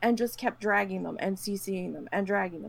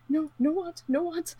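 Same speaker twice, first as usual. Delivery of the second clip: put-on childish whine; 7 semitones higher than usual. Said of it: "I was like".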